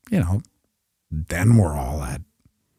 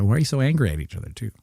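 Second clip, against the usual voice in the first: high, rapid mock query; quick, raised-pitch questioning; mock puzzled question; 3 semitones higher, much faster than usual. Acts puzzled question to arguing speakers.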